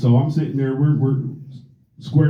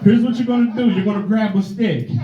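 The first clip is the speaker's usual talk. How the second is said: black mom; 4 semitones higher than usual. Retold or imitated. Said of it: "Black moms would be like".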